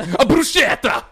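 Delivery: high, loud, exaggerated Italian bruschetta; mock Italian pronunciation. Mocking a celebrity chef saying bruschetta, hammed-up Italian accent. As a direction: gush it like a TV chef showing off. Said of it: "Giada De Laurentiis say it".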